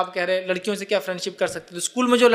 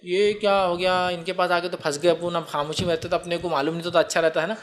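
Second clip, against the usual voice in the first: imagined student sighing. Pretend. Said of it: "अब आप सोचेंगे".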